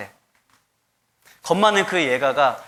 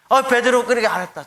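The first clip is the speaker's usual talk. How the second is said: Jesus answering; 7 semitones higher, 4 dB louder than usual. Retold or imitated. Jesus voiced reaching Peter.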